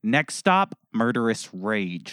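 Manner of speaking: hammed-up menace, slowing at the end; mock building rage. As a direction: announce the rage like a train conductor. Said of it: "Oh my goodness".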